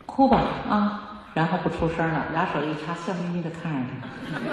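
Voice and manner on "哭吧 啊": calm permission. Shown as a demonstration. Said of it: "就这一句话就够了".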